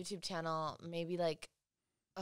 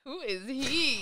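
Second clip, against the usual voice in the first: surprised; 8 semitones higher, 6 dB louder, much slower than usual. Retold or imitated. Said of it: "and I was like".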